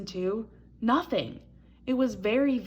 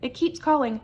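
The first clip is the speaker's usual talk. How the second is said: high, loud scared little mouse cry; little mouse fearing a ghost; frightened little mouse; 8 semitones higher, 5 dB louder than usual. A narrator's reading. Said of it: "he cried".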